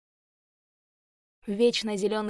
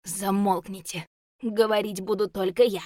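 hissed through teeth; 4 dB louder than usual. Acted. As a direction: hiss through gritted teeth. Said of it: "прошипел он сквозь зубы".

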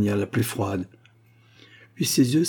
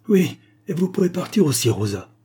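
high-pitched, cross dismissal; irritated cry; 8 semitones higher, 4 dB louder than usual. A narrator's reading. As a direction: order her out in irritation. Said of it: "s'écria mademoiselle Lyle".

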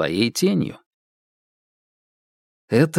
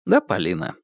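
ordinary delivery, nothing marked

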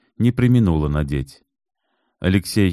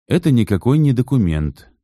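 patient; 6 semitones higher, 3 dB louder than usual. Acted. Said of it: "терпеливо пояснил Алексей".

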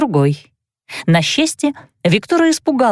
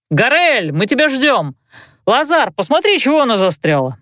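from another room; 4 semitones higher than usual. Acted. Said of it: "прокричал из коридора".

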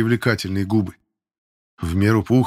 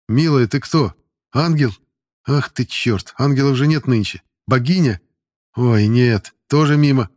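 loud, higher brash flirt; cheeky excited flirting; 4 semitones higher, 5 dB louder than usual. Acted. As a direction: show off loudly to the pretty teacher. Cocky cadet flirting with teacher.

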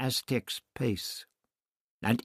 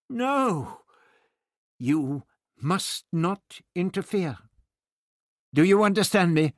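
put-on stern old doctor; 9 semitones higher, 3 dB louder than usual. Doctor forbids Barbara sharply.

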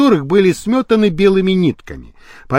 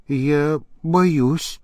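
put-on old woman whispering; 5 dB quieter than usual. A narrator's reading. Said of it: "прошептала старушка".

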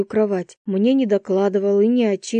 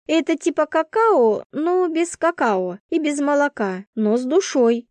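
lightly higher, reassuring friend; comforting roommate; 6 semitones higher than usual. A narrator's reading. Roommate comforting Vasya on the bed, reassuring. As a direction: talk her out of guilt. Svetka's voice.

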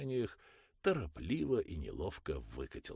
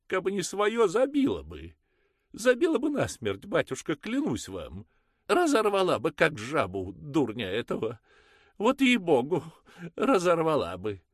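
shrill furious mother; 13 semitones higher, 12 dB louder than usual. Acted. Mother raging to the priest about her son, loud and high. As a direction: rage at the boy to the priest.

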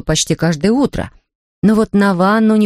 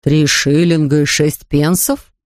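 slow, lower father echoing; a father struck by the price; impressed Mr Brown; 4 semitones lower, slower than usual. Acted. Father repeats the price, slow and lower. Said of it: "повторил мистер Браун".

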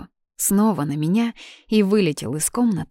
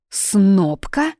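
louder, rising offended question; indignant echo; 3 semitones higher, 5 dB louder than usual. Acted. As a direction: repeat the insult in disbelief. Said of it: "возмутилась я". (возмущённо переспросить)

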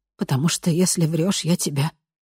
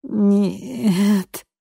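crying; 6 semitones higher than usual. A narrator's reading.

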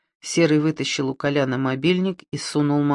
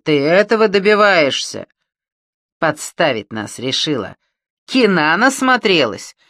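громкий злой медленный окрик; рявкнуть с угрозой; 3 dB louder than usual. Acted. Бандиты орут на Маню. (злобно орёт)

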